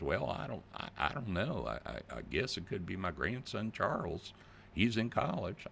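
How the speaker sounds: lightly voiced Southern grandmother, hesitant and unsure; Southern grandma voice. Confused grandma answering the fake officer, in a light Southern accent. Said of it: "I'm gone to a Southern voice".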